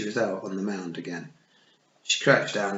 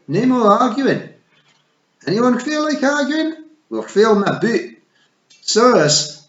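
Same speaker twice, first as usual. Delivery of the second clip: higher, loud Scottish war cry; rallying shout; 11 semitones higher, 10 dB louder than usual. A narrator's reading. Rob Anybody rallying the Feegles for battle, loud. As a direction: rouse the clan to battle.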